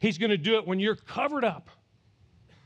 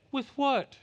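polite question; slower than usual. Retold or imitated. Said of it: "We read this very politely".

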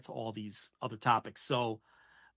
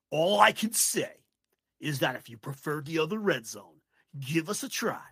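put-on Syracuse big boy voice. Imitating the Red Zone host pitching on a podcast. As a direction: lean into the announcer pomp, then ease off. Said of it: "he was using his Syracuse big boy voice".

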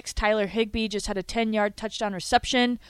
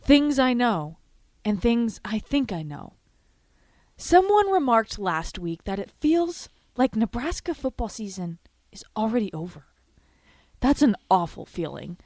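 dramatic monologue. Acted. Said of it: "here's" her "dramatic monologue".

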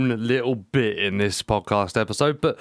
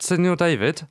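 formal; 5 semitones higher than usual. Pretend. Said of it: "Yeah, very formal".

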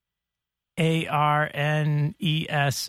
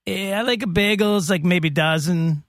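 half-hearted put-on European accent as the old lady; a lightly voiced accented customer; hint of a foreign accent asking for bagels; bad vague accent. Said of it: "a bad accent that was not totally decipherable".

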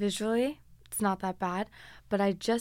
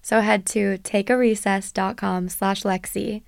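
bright, punchy sponsor read; upbeat ad read; 9 dB louder than usual. Acted. Host reading a sponsor ad to listeners, upbeat and punchy. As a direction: sell it like a radio spot.

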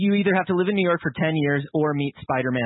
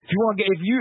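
higher-pitched New York tough guy; New Yorker accent; 4 semitones higher, much faster than usual. Acted. Host feeding the actress her cue, New Yorker accent. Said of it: "he's a New Yorker".

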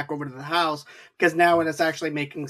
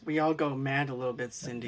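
hushed villain; 3 semitones lower, 8 dB quieter than usual. Retold or imitated. Villain line quoted.

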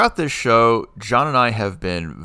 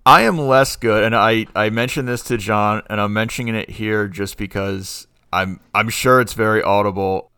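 numb mouth from Novocaine; numb from the dentist; 4 dB louder than usual. Real, not acted. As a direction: talk through a numb mouth. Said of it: "I can't feel my mouth right now".

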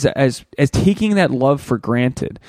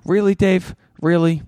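higher disbelieving really; self-scolding; 5 semitones higher than usual. Real, not acted. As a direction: chide yourself, disbelieving. Scolding himself for vomiting.

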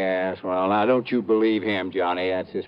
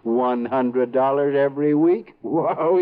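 awed boast; 3 semitones higher, 3 dB louder, slower than usual. Acted. Boasting about big spending.

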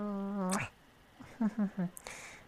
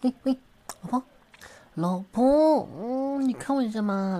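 high, loud, whining pleas for attention; a high, pleading coo that keeps calling for attention; whiny clingy partner; 4 semitones higher, 5 dB louder, slower than usual. Acted. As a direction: wheedle like a needy spouse tugging a sleeve.

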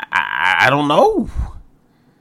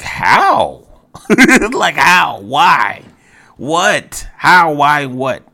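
rising exasperated how, why, what; voice getting high; 5 semitones higher, 6 dB louder, much slower than usual. Real, not acted. Podcast host baffled by the coach, voice climbing high. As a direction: pitch climbing in disbelief. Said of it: "you hear my voice get high".

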